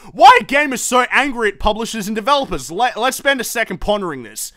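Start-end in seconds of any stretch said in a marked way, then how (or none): 0.1-2.7 mock developer. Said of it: "Do you seriously sit there thinking".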